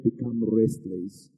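"become restless" drawn out slowly; slow down and lean on "become restless"; stress on become restless. Shown as a demonstration. Pastor pointing the congregation to a word, slow and stressed. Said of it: "I want you to underline that word".

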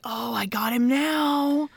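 slow, relaxed and smug; chill satisfaction. Retold or imitated. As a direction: savor it calmly, unhurried. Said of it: "he's just like".

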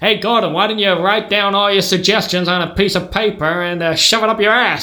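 sarcastic American father; American accent. Acted. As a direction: snub him in an American accent. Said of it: "gonna have to do an accent".

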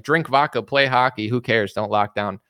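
imitating a blunt leader waving off lockdowns; lightly voiced, brusque dismissal; mock strongman leader. A mild mock leader shrugging off covid. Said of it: "the guy's like".

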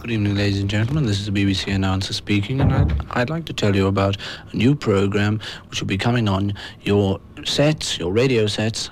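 mock posh announcer voice; posh BBC announcer. Shown as a demonstration. Beatle hamming a posh BBC announcer to the listeners. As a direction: put on a plummy BBC announcer. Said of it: "I'm speaking now with a very posh voice".

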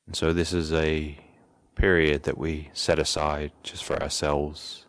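calm, even instructions with long pauses; guided meditation. Real, not acted. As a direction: settle them gently, leaving space between phrases. Leads into a meditation session.

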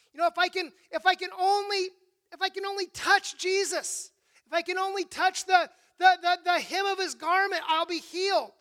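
pleading to herself, building to a desperate cry; sick woman telling herself one touch will heal her; desperate plea. Retold or imitated. Desperate woman voiced in retelling.

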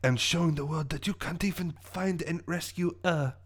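halting French villain monologue; French-accented scheming with hesitations. Acted. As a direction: boast of the crime in a French accent. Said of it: "my French accent".

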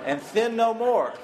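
laughing through the punchline. Real, not acted. Breaks up at own punchline.

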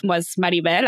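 Maribel with a Spanish tapped r, AH-ree-bel. Shown as a demonstration. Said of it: "say my name as".

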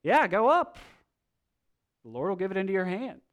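high, loud, fast mock agreement; sarcastic. Micaiah mocking Ahab with a fake yes, sarcastic. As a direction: toss it off with heavy sarcasm. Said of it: "he says sarcastically".

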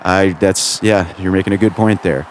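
dry, half-hearted agreement; understated sarcasm. Acted. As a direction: humour them with faint sarcasm. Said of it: "I sense the sarcasm in your voice".

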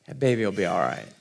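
low, soft, quick reassurance; retold calm reassurance. Sweet grandmother to worried parents, calmly reassuring. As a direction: imitate a grandmother settling it, low and quiet.

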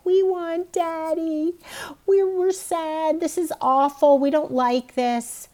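high, slow, put-on whiny child voice; mock whiny kids. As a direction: imitate sad kids whining for daddy. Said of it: "they're like".

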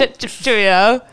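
slow, playful mock British; British accent. Host echoing the co-host's British goodbye, mock British accent. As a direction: put on a hammed-up British accent. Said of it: "British accent the entire time".

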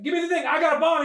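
Sinbad's character yelling a bomb threat; mock threatening shout.

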